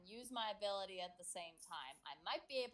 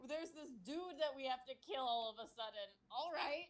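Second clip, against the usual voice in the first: mock wonder; 3 semitones higher than usual. Player recapping waking from a coma to friends, mock wonder. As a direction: play up clueless amazement at each thing. Continues mock retelling of own reaction.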